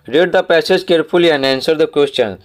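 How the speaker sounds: very slow, word by word, like reading to a class; slow dictation reading. Shown as a demonstration. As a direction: read it out slowly so pupils can follow. Teacher reads task instruction aloud.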